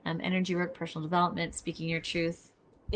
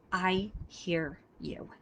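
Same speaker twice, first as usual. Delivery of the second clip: slow and gentle; much slower than usual. Shown as a demonstration. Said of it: "Your words matter to me".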